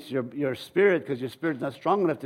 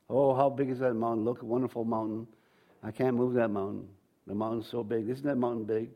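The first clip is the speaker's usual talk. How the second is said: a softer, deflated voice, mocking the doubter; mock defeated moaning; 5 semitones lower, 4 dB quieter than usual. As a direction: whine about the huge mountain like someone already beaten. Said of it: "He keeps talking about how big your mountain is".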